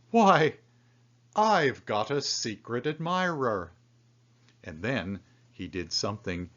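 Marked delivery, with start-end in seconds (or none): 0.1-3.7 exclaiming. A narrator's reading. Lonely man realising he has an admirer, exclaiming with joy. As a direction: burst out with delight.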